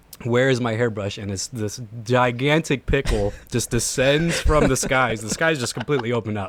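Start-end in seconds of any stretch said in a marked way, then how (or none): none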